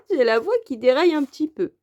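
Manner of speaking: hoarse voice cracking up a bit. Real, not acted. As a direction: sore throat, voice breaking on a laugh. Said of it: "désolée pour ma voix".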